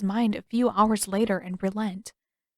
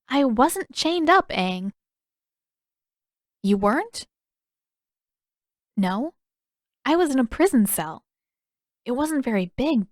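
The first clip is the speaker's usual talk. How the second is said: Katara correcting him, slightly raised pitch; Katara, puzzled; 3 semitones higher than usual. Acted. Katara correcting Aang's mistaken idea, lightly puzzled.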